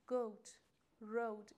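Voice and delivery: goat and road slowly with an "oh" glide; "oh" vowel. Shown as a demonstration. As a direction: model goat, road with long "oh", not "oo".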